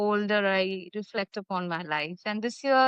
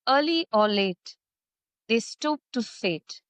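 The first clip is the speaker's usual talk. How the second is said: deliberate verse reading, pausing after each phrase; poem recitation. Acted.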